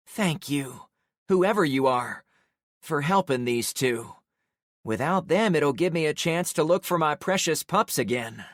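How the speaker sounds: lightly voiced frail old lady; a weary, kindly old woman. A narrator's reading. Old woman's lines in story.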